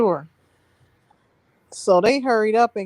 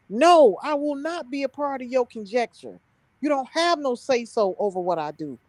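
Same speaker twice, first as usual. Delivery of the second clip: heated tirade; 4 semitones higher than usual. Retold or imitated. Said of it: "I was so heated".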